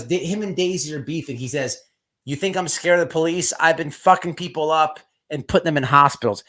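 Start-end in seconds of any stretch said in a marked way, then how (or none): 2.3-6.4 imitating a tough-guy boast, a bit louder; mild mock swagger, retelling a threat; acting tough. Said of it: "He's acting all tough".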